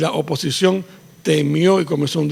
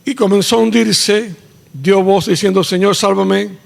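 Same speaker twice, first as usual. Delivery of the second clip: dramatic cry; 4 semitones higher, 6 dB louder than usual. Acted. Peter sinking, crying out.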